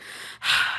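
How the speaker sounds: heavy breathy sigh; acted sigh of bitterness; weary sigh. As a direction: let out a fed-up sigh. Bitter at work on Valentine's.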